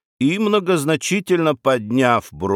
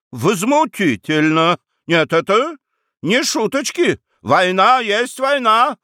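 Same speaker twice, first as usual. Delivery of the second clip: outraged shout; 8 semitones higher than usual. Acted. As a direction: yell that war is war. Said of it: "закричал он". (возмущённый крик герцога)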